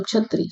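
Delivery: छत्री said "chhatri", the क्ष sound turned into chh; teacher demos the everyday slurred छत्री; colloquial mispronunciation. Shown as a demonstration. Teacher demonstrates to students: छत्री said as chhatri. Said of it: "इसको आप छत्री बोलते हो".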